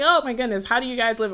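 kid's exaggerated dismay; teasing disbelief. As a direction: poke fun, aghast at their life. Mocking country relatives as a kid.

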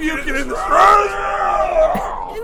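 high, slow, loud shriek; shrieking wail. Acted. Sick in the stratosphere, shrieking in despair. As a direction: wail as if it's all going wrong.

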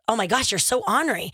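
"ornery" said as ON-ree; ornery without R. Retold or imitated. Cohost quoting her old usage, "ornery" as ON-ree. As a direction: make "ornery" rhyme with on-ree. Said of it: "I thought".

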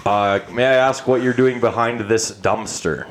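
lightly voiced, measured officer; slow, formal questioning; police officer. Cop questioning a man behind a dumpster, measured officer voice. Plays cop in improv scene.

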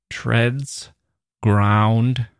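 "Treads" and "ground" set apart, consonants weighted; heavy consonants. Shown as a demonstration. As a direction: lean on the clusters in "Treads" and "ground". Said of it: "Listen to the heaviness of the consonants".

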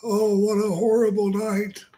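high, mournful, creepy whine; Paul Bearer impression. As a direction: moan it like a gloomy undertaker. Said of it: "Paul Bearer comes in".

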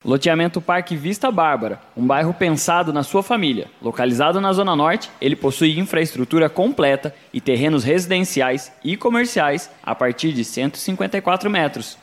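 upbeat ad read; infomercial. Acted. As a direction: sell it like a radio ad.

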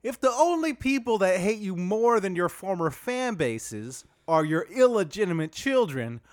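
lightly voiced joke-teller; Dwight Howard voice. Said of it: "can we dial that accent up a little".

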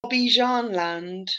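slow, careful model of "Bobby John Land"; pronunciation demo. Shown as a demonstration. Showing co-hosts how to say the park's name, slow pronunciation demo. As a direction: say "Bobby John Land" slowly, each word clear. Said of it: "can you say that again?".

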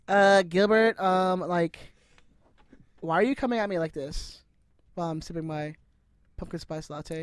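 put-on valley girl voice, sipping a latte; whiny valley girl, mock offended; white girl from MTV. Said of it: "Why do you sound like some white girl from M T V".

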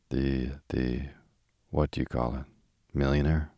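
a lightly voiced foreign manager searching for a word; hesitant foreign manager. Rocco to the millionaire, a light hint of a foreign manager fumbling.

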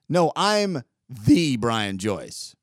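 slow, self-important correction; slow, self-important "the Brian Joyce"; pompous self-introduction. Retold or imitated. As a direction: lean on "the" like a big shot. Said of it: "the pompous guy probably did".

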